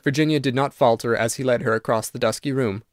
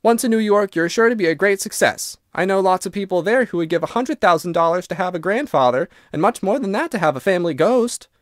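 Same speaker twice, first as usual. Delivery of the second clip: put-on higher, chatty girl's voice; lightly voiced girl, pitched up; lively young Virginia; 5 semitones higher than usual. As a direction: brightly persuade a reluctant ghost.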